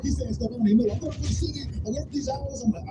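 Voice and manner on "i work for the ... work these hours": ranting dad. Retold or imitated.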